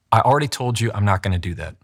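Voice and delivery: said quickly with mild exasperation; quick, exasperated. Shown as a demonstration. Coach models a line to say quickly, quick and exasperated. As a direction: rattle it off, a touch exasperated. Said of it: "say quickly with some, almost some exasperation".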